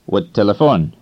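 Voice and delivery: "What telephone" run together, the I of it- dropped; run together as one word. Shown as a demonstration. Teacher showing learners how two words merge, run together as one word. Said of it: "the two words become like one word".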